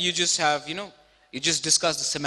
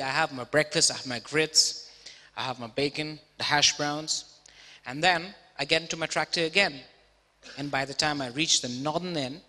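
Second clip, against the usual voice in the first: Texan farmer; 3 semitones lower, 3 dB quieter than usual. Retold or imitated. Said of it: "he said".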